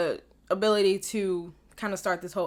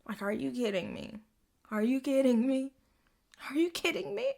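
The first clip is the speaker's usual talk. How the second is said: each repeat climbing higher; rising disbelief; 5 semitones higher than usual. Real, not acted. Fan reacting to the giant arrow, disbelief building. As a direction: build from mutter to squeal.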